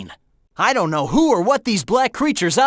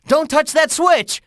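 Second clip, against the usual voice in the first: higher-pitched urgent warning; 6 semitones higher than usual. Acted. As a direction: stop a teammate in a hurry. Urgent warning during play.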